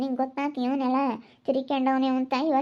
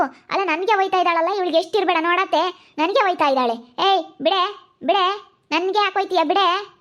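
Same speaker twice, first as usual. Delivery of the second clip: loud, raised, outraged cries in a fight; angry shouting; 3 semitones higher, 4 dB louder than usual. Acted. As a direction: fight back and yell let go. Woman shouts while being beaten.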